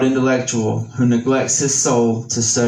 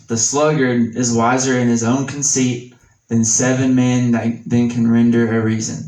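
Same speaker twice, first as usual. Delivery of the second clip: measured, slightly raised reading of scripture. Acted. Reads Proverbs in scripture voice.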